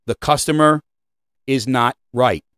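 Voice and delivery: "not right" set apart after a pause; pause, then land "is not right" firmly; emphatic teaching line. Shown as a demonstration. Trainer telling retail staff a key rule, emphatic. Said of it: "I teach this in leadership".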